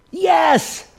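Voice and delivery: a high, loud burst of yes; joyful cry. Retold or imitated. Woman's first prayer to Jesus, a high loud joyful yes. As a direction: fling the word out like a first prayer.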